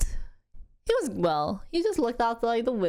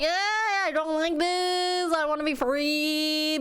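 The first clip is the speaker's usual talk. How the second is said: imitating fussing baby; 9 semitones higher than usual. Mom voicing her baby in the car seat, high mock fussing. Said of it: "He's just kinda like".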